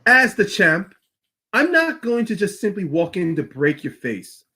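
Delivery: put-on Irish-accented threat, slowing at the end. Champion Becky threatening Nia before the match, Irish accent. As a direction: promise the injury in an Irish accent. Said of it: "try with an Irish accent".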